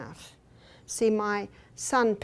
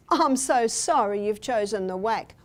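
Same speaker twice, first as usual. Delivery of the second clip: parent's mock-sorry line. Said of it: "you know what the parent says".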